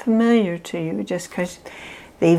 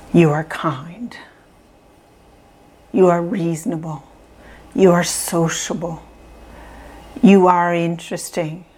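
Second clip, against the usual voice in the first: gentle affirmations. Shown as a demonstration. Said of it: "repeating the positive things".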